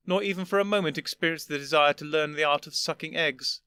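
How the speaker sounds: put-on an old gentleman patiently explaining; lofty old Doctor. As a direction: superior elder explaining to his younger self. First doctor listing reasons.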